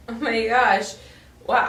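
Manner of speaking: ordinary talk, nothing marked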